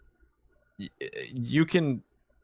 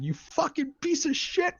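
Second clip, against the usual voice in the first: much higher mock rage at the game; imitating dad's scream. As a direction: imitate a gamer dad yelling at the screen. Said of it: "just screaming".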